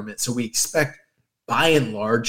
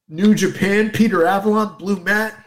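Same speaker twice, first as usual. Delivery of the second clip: mocking commenter voice; 5 semitones higher than usual. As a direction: play the clueless fan sneering. Mocking clueless online commenters.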